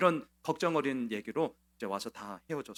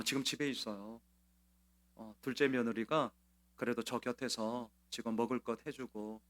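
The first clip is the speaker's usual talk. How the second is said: calm and composed; 2 semitones lower, 4 dB quieter than usual. Retold or imitated. Grieving deaconess tells her pastor calmly, understated. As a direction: keep it level despite grief. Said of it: "너무나 담담하게 말씀하셨습니다".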